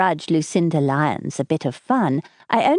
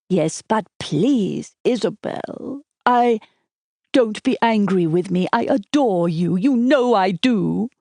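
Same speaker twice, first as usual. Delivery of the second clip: pleading; 4 semitones higher than usual. Acted. Desmond pleading with Isabel.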